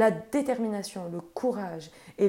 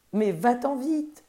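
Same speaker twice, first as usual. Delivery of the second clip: slow, raised call from far above; crying out; 3 semitones higher than usual. Acted. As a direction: urge him to flee, calling out. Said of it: "lui crièrent les dieux".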